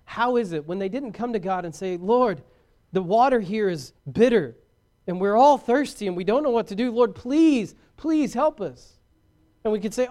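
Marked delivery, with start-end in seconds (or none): 2.0-9.0 acted plea, rising higher; pleading prayer. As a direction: beg for help, drawing out the final please. Acted humble plea to God.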